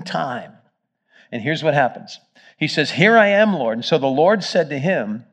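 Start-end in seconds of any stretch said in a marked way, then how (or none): 2.9-3.8 bright, loud, eager reply; a keen servant's higher, louder reply; eager answer. Acted. Ananias answers the Lord eagerly.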